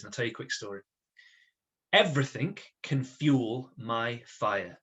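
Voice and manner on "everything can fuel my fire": each word spelled out slowly for writing; slow dictation. Shown as a demonstration. Teacher dictating to the class, slow and deliberate. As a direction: dictate it slowly so they can copy. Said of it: "I want you to write this little phrase".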